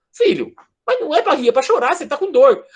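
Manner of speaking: falsa bronca, mais aguda, brincando; bronca de brincadeira. Retold or imitated. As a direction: fingir que repreende rindo por dentro. (mãe fingindo repreender o filho que ri, falsa bronca)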